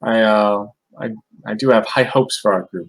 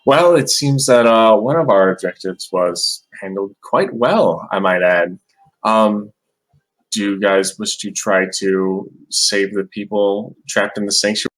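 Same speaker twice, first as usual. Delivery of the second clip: in-character speech. Acted. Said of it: "I asked the rest of the group".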